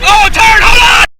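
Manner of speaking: high shout to hold on; taking a sharp corner. Real, not acted. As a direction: yell a warning on the corner.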